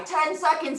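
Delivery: a light hint of a drill sergeant barking the time. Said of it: "He sounds like a drill sergeant".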